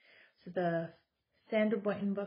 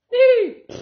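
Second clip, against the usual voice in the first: much higher and much louder squeaky beep; silly beep; 23 dB louder than usual. Acted. Mom springing the joke horse sound on her kids, squeaky high beep. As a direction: make the beep a silly surprise.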